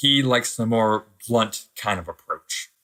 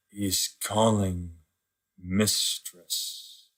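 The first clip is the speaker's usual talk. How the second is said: afraid; 6 dB quieter, much slower than usual. Acted. Apprentice whispers in fear.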